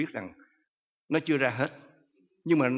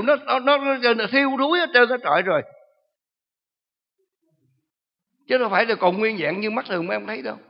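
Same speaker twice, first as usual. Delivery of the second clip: high, loud gloating demon voice; demon boasting; 8 semitones higher, 9 dB louder than usual. Retold or imitated. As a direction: gloat over the rotten offerings. Preacher voicing the demon boasting. (giọng ma quỷ khoe khoang lớn tiếng)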